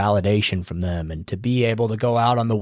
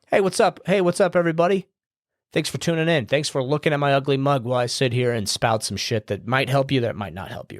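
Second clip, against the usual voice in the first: cheery host intro; 3 semitones higher than usual. Shown as a demonstration. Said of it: "Just look at the camera".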